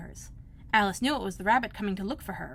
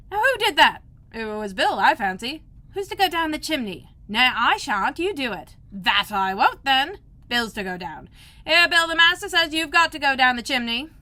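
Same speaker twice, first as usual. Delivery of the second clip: louder rough calls; workmen calling out; 5 semitones higher, 8 dB louder than usual. A narrator's reading. Workmen arguing who goes down the chimney, loud.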